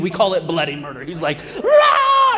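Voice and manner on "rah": sudden high yelled rah; child's tantrum scream; mock toddler scream. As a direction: imitate a screaming little boy. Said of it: "he is screaming".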